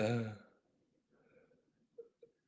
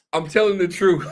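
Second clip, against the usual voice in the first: laughing. Real, not acted. Laughing while insisting.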